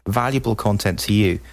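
mock sales pitch; infomercial voice. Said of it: "sounds like an infomercial".

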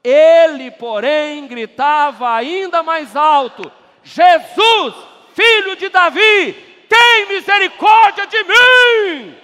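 very loud, high, slowing shout. Real, not acted. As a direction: belt it even harder to the rafters. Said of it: "aplauda mais forte".

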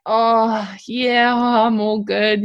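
slow, casual "I'm fine" cover-up; brush-off lie. Retold or imitated. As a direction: wave it away like nothing's wrong. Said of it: "that classic brush it off lie".

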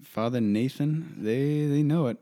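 loud and high, mock-indignant listing; excited teasing. Real, not acted. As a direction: pile on the names with playful outrage. Rising teasing about pastors' pride.

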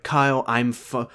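woozy, fading out; dizzy. Retold or imitated. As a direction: act dizzy and faint. Acted dizziness.

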